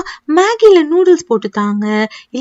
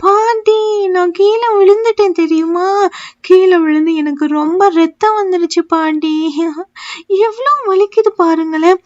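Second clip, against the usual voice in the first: whimpering complaint; 3 semitones higher than usual. Acted. Hurt child crying to grandma about her fall. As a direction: whimper about the scraped knee.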